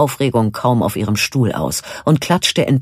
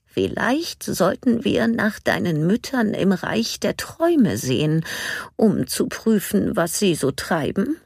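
gentle suggestion; 8 semitones higher than usual. A narrator's reading. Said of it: "schlug Nanny vor".

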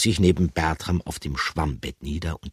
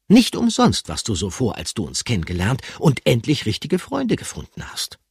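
leicht erhöhte, freundliche Stimme; freundliche Figur; 7 semitones higher, 5 dB louder than usual. Acted. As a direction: freundlich und etwas höher erklären. Gruyère voiced in story. (leicht hohe, freundliche Figurenstimme)

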